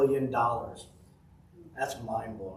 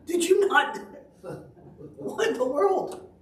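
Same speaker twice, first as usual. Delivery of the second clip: much higher, louder, laughing through "what in the world"; higher laughing incredulity, slowing at the end; laughing disbelief; 4 dB louder than usual. Retold or imitated. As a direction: crack up in mock astonishment. Dad retells reaction, laughing.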